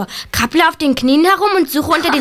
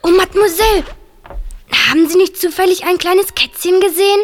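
ordinary talk

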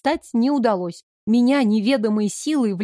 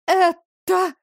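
a high, shocked "Это?"; 8 semitones higher, 3 dB louder than usual. A narrator's reading. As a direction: stare at the mirror and blurt it. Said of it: "заикаясь, пролепетала я".

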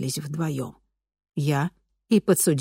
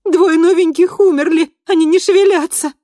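much higher, louder frantic cry; frantic, as if the animals were dead; panicked; 13 semitones higher, 10 dB louder than usual. A narrator's reading. Panicked report to Dorsett. (панически, гораздо выше и громче)

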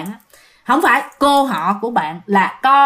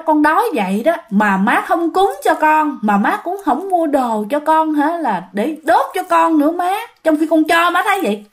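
a higher voice, half crying and half blaming; tearful reproach; 6 semitones higher than usual. Retold or imitated. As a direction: reproach mother through mild tears. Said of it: "vừa khóc vừa trách".

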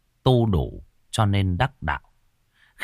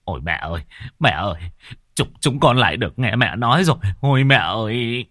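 tearful son; 3 semitones higher than usual. Acted. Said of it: "òa khóc như đứa trẻ".

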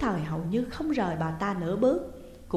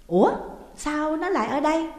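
surprised; 8 semitones higher, 6 dB louder than usual. A narrator's reading. Surprised find.

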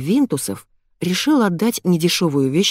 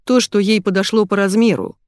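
barking; 4 semitones higher, 3 dB louder than usual. Acted. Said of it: "рявкнул Аркадий".

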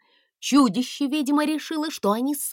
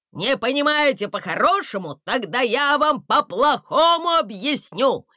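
booming bass; 5 semitones higher, 4 dB louder than usual. A narrator's reading. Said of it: "голос снова налился басовитой мощью".

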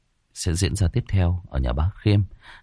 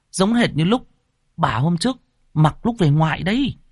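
high, breathless servant boy reporting bad news; a scared lad blurting out what he saw; frightened young servant; 8 semitones higher than usual. Young servant reporting the body to his master, high and shaken. Servant insists it's her.

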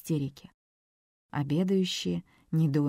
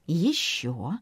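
whispered. Acted. Coaxing her to eat more.

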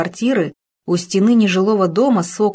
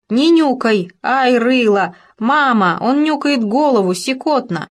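put-on giggly little girl; 5 semitones higher, 3 dB louder than usual. A narrator's reading. Child squealing while tickled.

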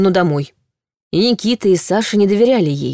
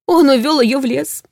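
high, shaky frightened voice; trembling voice; 7 semitones higher than usual. A narrator's reading. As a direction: tremble as you say it. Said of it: "дрожащим голосом".

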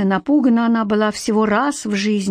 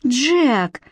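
exclaiming; 4 semitones higher than usual. Acted. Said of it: "воскликнула Златовласка".

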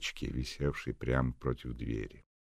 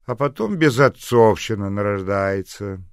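put-on spiteful old woman; 6 semitones higher, 12 dB louder than usual. Old neighbour grumbles.

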